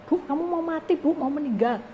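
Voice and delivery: preacher hamming up a blunt warning to the woman; mock blunt warning. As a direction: blurt it out like a tactless warning.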